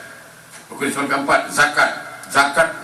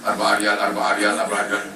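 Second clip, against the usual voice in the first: lower, repeated hawker's call; imitating a Mecca vendor; 5 semitones lower than usual. Tasbih seller near Hilton Hotel calling out, lightly imitated. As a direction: chant the price like a street seller. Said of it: "orang jual tasbih".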